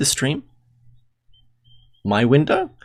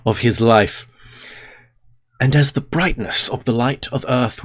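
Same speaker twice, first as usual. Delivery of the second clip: solemn reading. Acted. Streamer reading the Hermes story to chat, in a solemn reading voice. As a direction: read it like an old sacred text, unhurried. Reads Hermetic text aloud.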